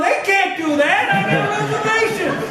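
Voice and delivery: retold angry yell. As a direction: mimic the friend yelling about his reservations. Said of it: "He's yelling".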